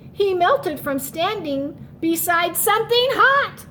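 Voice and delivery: put-on lively read-aloud for children; story narration. Teacher reading aloud to her class, lively rhyming read-aloud. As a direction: read the rhyme to young kids. Reads a rhyming picture book.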